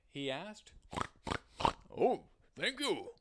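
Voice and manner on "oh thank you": high, louder little pig voice; grateful pig, high and loud. Acted. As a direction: play the polite pig, pitched up. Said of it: "said the pig".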